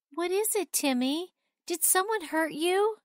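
big sister gently comforting her upset little brother; gentle asking. Acted. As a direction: ask gently, like soothing a crying child. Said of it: "gently asked".

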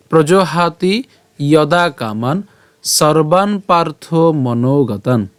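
slow phrase-by-phrase Sanskrit recitation; verse read in parts. Shown as a demonstration. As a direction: recite in short pieces with pauses between, for learners. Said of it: "প্রথম থেকে". (ভেঙে ভেঙে ধীরে শ্লোক পাঠ)

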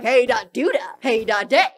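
lightly sung imitation of the monster; playful copy of the song line; mock greeting voice. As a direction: mimic the silly lyric, bouncy. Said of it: "'cause it's like".

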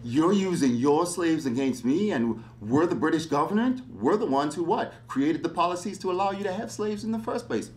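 livid governor. Retold or imitated. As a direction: play the furious British governor, pitch climbing. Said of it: "Dunmore is livid. He's like".

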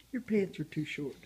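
soft unvoiced whisper. Real, not acted. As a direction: hush it like a secret. Whispering to toddler.

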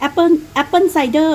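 slightly affected English pronunciation. Shown as a demonstration. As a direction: say it with a mildly pretentious English accent. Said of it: "กระแดะนิดนึง เวลา เวลาพูดแบบ". (ออกเสียงอังกฤษแบบกระแดะนิดนึง)

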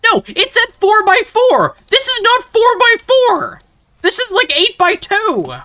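very high, loud indignant yelling; outraged high-pitched rant; mad outburst. Real, not acted. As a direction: yell the complaint at the top of your pitch. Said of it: "and I am mad".

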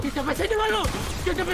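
mocking question. Real, not acted. Streamer keeps needling losing rival, high and mocking. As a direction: repeat it in a needling little voice.

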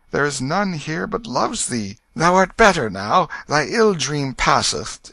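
comforting fatherly king. A narrator's reading. King soothing his trembling child, earnest fatherly comfort. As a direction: reassure firmly, with hopeful questions.

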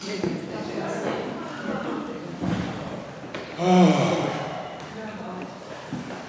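long, soft settling out-breath; long sigh. Shown as a demonstration.

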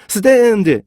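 slow, broken-up stand; breath not connected. Shown as a demonstration. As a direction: stand dragged out slowly in pieces. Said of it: "호흡을 계속 끊어버리게".

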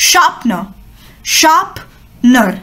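sharpener with the r dropped, very slowly; model pronunciation. Shown as a demonstration. Teacher demonstrates silent r in sharpener. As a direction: drop the r in sharpener and stretch it. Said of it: "it's pronounced as".

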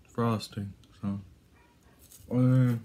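talking with mouth full; chewing between words; biting into a snack. Real, not acted. Seen 1: Bites wafer bar at mouth 0.1-0.6, then chews with lips closed.

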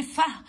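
"فه" with a vowel after the f; wrong voiced ending. Shown as a demonstration. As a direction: add an unwanted "ah" to the f in "فه". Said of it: "ولا تقول لي فه". ("فه" بحركة زيادة غلط)

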